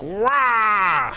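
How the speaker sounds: growled zombie roar; zombie scream. Retold or imitated. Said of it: "like zombie screams underneath".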